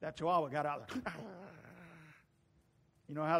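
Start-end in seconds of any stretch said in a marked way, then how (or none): 1.2-1.8 imitated dog growl. Imitates the chihuahua coming out.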